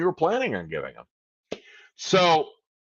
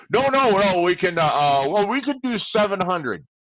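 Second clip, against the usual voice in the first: the collector stammering loudly, a touch higher; flustered collector; 4 semitones higher, 4 dB louder than usual. Acted. Bob on the phone, pressed by the debtor, flustered and loud. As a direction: scramble to save the deal.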